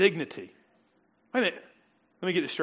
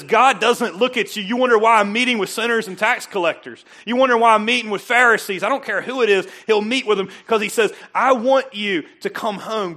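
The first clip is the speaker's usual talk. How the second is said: voicing God; 6 semitones higher, 11 dB louder than usual. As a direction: speak as God calling the lost home. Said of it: "That says".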